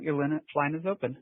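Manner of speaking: usual speaking voice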